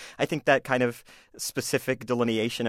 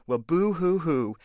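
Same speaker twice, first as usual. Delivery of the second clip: fake crying; 4 semitones higher, slower than usual. Bully mocking principal's baldness.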